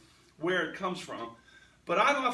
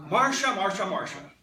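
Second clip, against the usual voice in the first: louder mock whining Marcia; Jan's whine; 7 dB louder than usual. Preacher imitating Jan from the Brady Bunch, mock exasperated whine. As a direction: whine the sister's name like Jan. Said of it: "Jan said what".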